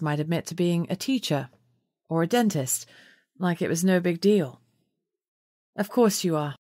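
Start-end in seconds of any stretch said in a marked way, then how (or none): 5.8-6.6 calmly. A narrator's reading. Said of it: "I said calmly".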